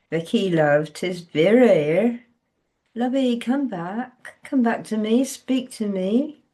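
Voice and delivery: a lightly voiced older woman coaxing, slow; Vera calling. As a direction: gently call her back, lightly voiced. Vera's voice on phone.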